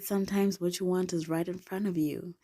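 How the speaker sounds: a hint of a sultry, seductive line; lightly sultry come-on. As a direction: purr it like a flirt. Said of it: "I said it with my sultry voice".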